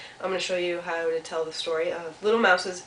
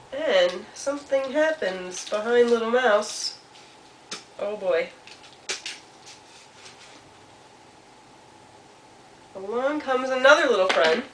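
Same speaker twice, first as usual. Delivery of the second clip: lilting narration with long suspenseful pauses; storytelling to children; 3 semitones higher than usual. A narrator's reading. Storyteller asks children what is happening, playful suspense. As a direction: draw young listeners in, musing between events.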